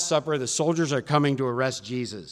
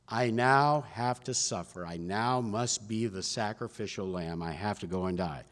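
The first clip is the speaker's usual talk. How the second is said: solemn announcement; 4 semitones lower, 7 dB quieter than usual. Acted. Jesus foretells death at Last Supper.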